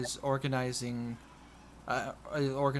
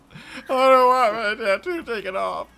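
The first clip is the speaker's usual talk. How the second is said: whiny crying orc; 10 semitones higher, 12 dB louder than usual. Acted. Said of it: "He seems very sad".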